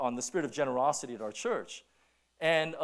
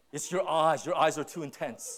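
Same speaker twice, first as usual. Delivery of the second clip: wife's complaint; 3 dB louder than usual. Retold or imitated. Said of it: "she said".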